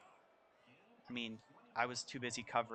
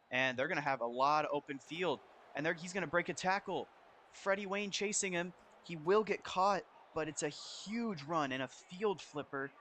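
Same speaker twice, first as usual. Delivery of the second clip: lively, raised sports-call voice; excited play-by-play; 5 semitones higher, 4 dB louder than usual. Real, not acted. Gamer calls an opponent's breakaway run, excited play-by-play. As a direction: call the big run as it unfolds.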